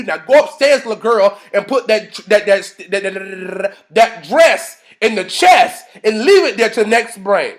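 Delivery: acted scolding, stammering then slowing down; stern mother scolding. Claire sending Rudy upstairs with the dress, stern scolding. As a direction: order the child off, landing hard on the last words.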